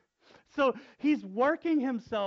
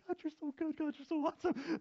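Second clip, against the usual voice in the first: mock fervent prayer; 9 semitones higher, 4 dB quieter, faster than usual. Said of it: "Like, really praying".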